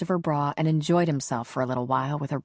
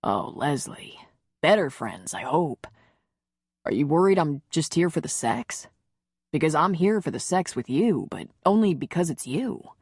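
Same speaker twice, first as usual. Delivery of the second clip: lightly voiced man. Connor speaks, lower than narration.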